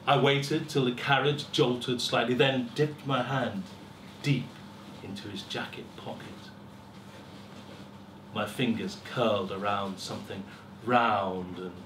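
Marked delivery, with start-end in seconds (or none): 5.0-6.5 whispering. A narrator's reading. Tense pickpocketing moment.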